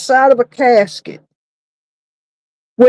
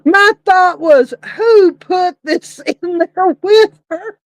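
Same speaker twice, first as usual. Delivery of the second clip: laughing; 4 semitones higher than usual. Real, not acted. Still laughing after the joke.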